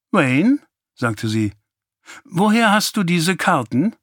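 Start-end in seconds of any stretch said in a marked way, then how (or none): 0.1-0.6 high, louder rising call of a name; questioning mother. A narrator's reading. Mother confronts son over cards. 2.2-3.9 higher-pitched probing question; mother demanding answers. A narrator's reading. Mother confronts son over cards.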